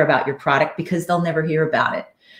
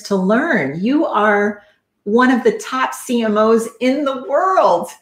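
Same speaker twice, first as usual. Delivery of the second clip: impassioned urging; 4 semitones higher than usual. Retold or imitated. Coach urging client to write.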